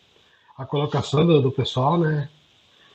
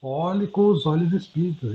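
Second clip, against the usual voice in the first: little inner voice; 3 semitones higher than usual. Retold or imitated. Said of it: "uma vozinha, falava assim no meu ouvido".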